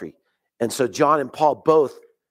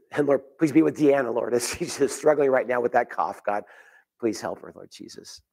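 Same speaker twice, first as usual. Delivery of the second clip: spoken prayer; 3 semitones lower than usual. Real, not acted. Pastor prays for sick Deanna.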